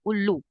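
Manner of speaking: उल्लू with a held, pressed ऊ; long u demo. Shown as a demonstration. Teacher recapping the long vowel for students, held and pressed. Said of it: "दीर्घ मतलब क्या?".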